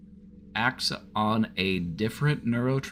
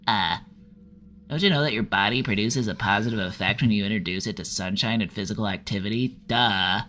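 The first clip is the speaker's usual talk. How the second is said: pedantic, nasal know-it-all voice; put-on nasal pedant with condescending stresses; nasally "well, actually" incel. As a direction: correct them like a smug nasal nerd, stumbling on "uh". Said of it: "How about a nasally will actually incel?".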